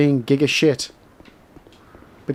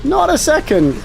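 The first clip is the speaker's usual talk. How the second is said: slow boast; 11 semitones higher, 3 dB louder, slower than usual. Real, not acted. Repeats the boast.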